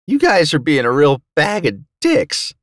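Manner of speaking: high, strained wheeze; wheezed complaint. A narrator's reading. Beaten fighter to his attackers, wheezing. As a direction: squeeze the complaint out high, winded from punches. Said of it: "I wheezed".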